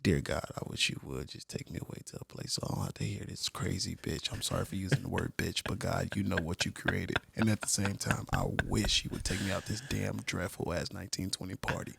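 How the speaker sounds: whispered, very soft mock prayer; silent prayer. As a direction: pray under your breath, as if only God hears. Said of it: "have a silent prayer in her mind".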